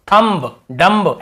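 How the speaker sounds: थंब, डम्ब both said ending on a sounded b; wrong b sounded. Shown as a demonstration. Teacher mimicking students' reading, b sounded. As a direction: give थंब and डम्ब a clear final b. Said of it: "ऐसे पढ़ते हैं ना".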